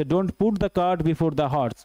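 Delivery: careful, spaced-out classroom reading; slow dictation. Shown as a demonstration. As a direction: stretch every word of the proverb. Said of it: "teacher reads the proverb slowly".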